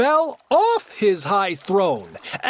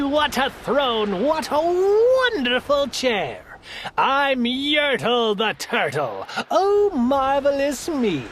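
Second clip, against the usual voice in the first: lightly voiced pompous turtle king, higher; boastful king; 4 semitones higher than usual. Turtle king brags from his high throne, mild pompous voice. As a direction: crow about your throne, lightly hammed.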